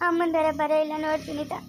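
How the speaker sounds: tearful plea through labour pain; crying in pain. Acted. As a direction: sob it out, begging her sister. Woman in labour pain, pleading.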